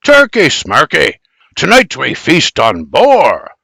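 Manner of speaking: a touch of a husband's swagger; proud boast. A narrator's reading. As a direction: brush off the turkeys and boast. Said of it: "her husband proudly boasts".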